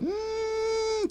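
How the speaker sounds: squeaks up high mid-sentence; voice cracking high. Real, not acted. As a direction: voice jumps way up. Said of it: "Your voice went really high there".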